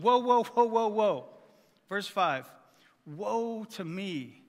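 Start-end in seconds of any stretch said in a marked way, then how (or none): 0.0-1.3 acted-out Isaiah, overwhelmed by the vision; alarmed whoa. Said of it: "That's my translation". 3.1-4.4 slow, drawn-out lament; crying out in woe. Acted. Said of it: "I cried".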